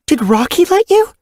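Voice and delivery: stern. Acted. Mother questions.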